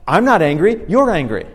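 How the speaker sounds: mock angry retort; defensive denial. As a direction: deny it hotly, throw it back at them. Acted denial in a quarrel.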